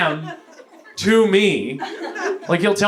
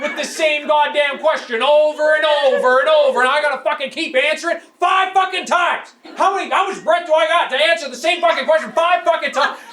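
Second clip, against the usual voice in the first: exasperated rant; 7 semitones higher than usual. Retold or imitated. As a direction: vent it like you've heard it five times. Ranting about repeated question.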